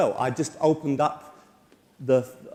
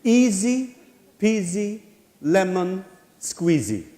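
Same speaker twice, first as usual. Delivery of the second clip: playful sing-song; 3 semitones higher, 4 dB louder, slower than usual. Real, not acted. Cheery catchphrase to viewers.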